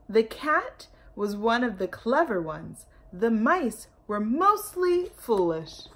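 lively storybook narration; reading to children. A narrator's reading. Storyteller reading aloud to children, lively. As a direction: read it out big and bright for little listeners.

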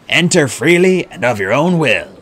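grand formal invitation. A narrator's reading. Host ushering twins through the entrance, formally. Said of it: "he said formally".

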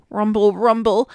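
low rumbling tummy noise. Acted. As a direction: growl it low like a stomach. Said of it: "his tummy growled".

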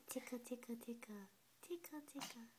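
giggly tickle attack. Acted. Parent tickling the baby.

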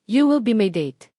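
loud, bold declaration; triumphant announcement. Acted. Marco telling Ana she will be his date, triumphant. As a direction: announce it like a grand reveal.

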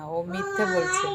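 high, theatrical whine; hammed-up wronged wife; dramatic tone. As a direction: ham it up to win the husband. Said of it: "নাটকীয় সুরে বলল তানিয়া".

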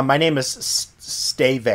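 Steve said as "stay-vay"; mock mispronunciation. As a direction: stumble on the S, then misread Steve as "stay-vay". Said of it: "people that mispronounce".

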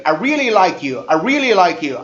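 "like you" run together as "lai-kyoo"; "like you" ending in one "kyoo" syllable; linked pronunciation. Shown as a demonstration. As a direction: join the k of "like you" onto "you". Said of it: "끼우 발음이 들어가죠".

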